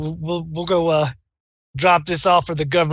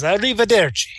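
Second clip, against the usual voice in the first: lightly put-on Italian accent; a hint of an Italian chef accent; 3 semitones higher than usual. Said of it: "did not practice my Italian accent".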